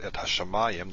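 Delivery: hashamayim stressed on MA, second to last; stress on second-to-last syllable. Shown as a demonstration. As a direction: lean on the MA in "hashamayim". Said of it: "emphasize that a little bit".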